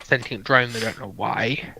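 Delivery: ordinary delivery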